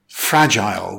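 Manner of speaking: "fragile" as FRAJ-ile, first syllable stressed; teacher's careful model of "fragile", stress up front. Shown as a demonstration. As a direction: lean on the opening of "fragile". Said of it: "with stress on the first syllable".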